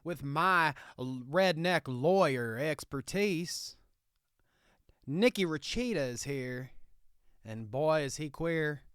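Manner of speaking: Southern hick lawyer bit, laid on thick; redneck Southern lawyer. Acted. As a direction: play a proud country lawyer in a thick Southern accent. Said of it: "What's with this accent, Nicky".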